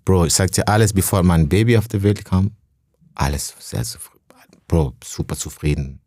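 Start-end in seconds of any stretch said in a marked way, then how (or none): 3.1-6.0 whisper. Real, not acted. Recalling happy times before baby.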